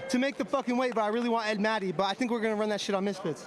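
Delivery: talking around a mouthguard; words muffled by a mouthguard; wearing a mouthguard. Real, not acted. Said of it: "Bro, I still got my mouth guard in".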